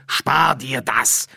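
mildly cross, drawn-out put-down; hissed. A narrator's reading. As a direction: cut the spirit short with slow emphasis. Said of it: "zischte Frau Kuchen".

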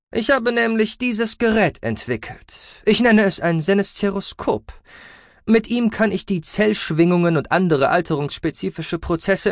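high creaky researcher voice; creaky, boastful scientist. A narrator's reading. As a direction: present your invention proudly, in a high creaky voice.

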